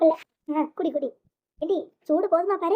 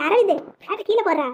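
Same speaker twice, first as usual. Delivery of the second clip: raised, alarmed order; urgent command; 2 semitones higher, 4 dB louder than usual. Acted. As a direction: call out sharply to stop him. Family member orders bat put down. (அவசரமான அதட்டல்)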